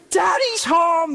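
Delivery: high, drawn-out gleeful call; excited kids' shout. Retold or imitated. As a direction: imitate little kids calling out slowly. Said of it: "They would shout".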